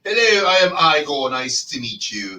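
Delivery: a light Igor impression, slowing at the end; playful creepy assistant greeting. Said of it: "and he had the".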